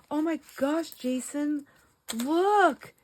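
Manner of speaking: high gasping excited call to husband. Retold or imitated. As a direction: gasp and call him over, thrilled. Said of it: "I'll be like".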